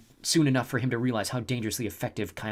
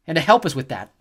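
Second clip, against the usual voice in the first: louder, higher retort; angry Leo; 5 semitones higher, 10 dB louder than usual. A narrator's reading. Leo blaming the snow goddess, loud angry retort. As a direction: snap back in anger.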